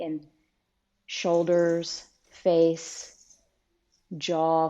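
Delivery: calm guiding voice with long pauses between phrases; guided meditation. Real, not acted. Teacher settling listeners into seat and breath, guided meditation. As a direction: ease them gently through it, leaving room to breathe.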